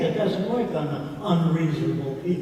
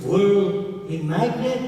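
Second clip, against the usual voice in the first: higher, louder astonished broken English; higher, louder amazed imitation of Elbaz; 5 semitones higher, 5 dB louder, much slower than usual. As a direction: sound struck by a discovery. Elbaz amazed by the balloon demo.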